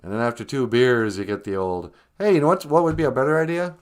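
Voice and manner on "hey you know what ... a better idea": bright idea. Acted. Acting out idea after beers.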